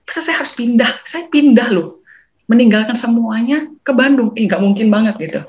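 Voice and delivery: emphatic refusal. Real, not acted. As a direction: insist she won't move, drawing the words out. Refusing to move to Bandung. (penolakan keras yang lambat dan lantang)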